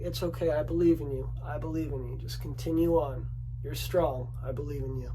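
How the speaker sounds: soft, low mock-encouraging murmur; half-joking, coax her up the mountain gently; joking reassurance. Shown as a demonstration. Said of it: "Joking like that".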